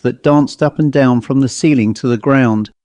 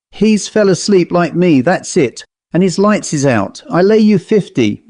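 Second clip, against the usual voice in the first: put-on a lightly raised, nervous old servant; old butler's voice; 5 semitones higher than usual. Frightened butler reassures himself in the dark passage, lightly voiced. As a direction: keep your courage up with chatter.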